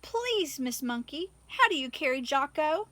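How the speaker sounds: squeaky high plea, out of breath; breathless squeak. Acted. Katy catching up with Missus Monkey, breathless squeak. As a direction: squeak it out after running to catch up. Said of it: "she managed to squeak".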